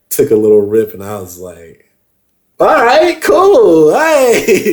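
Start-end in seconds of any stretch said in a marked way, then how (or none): 2.6-4.6 high, loud buzzed exclamation; sudden high. Retold or imitated. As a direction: blurt it out as the rush hits. First hit of coke.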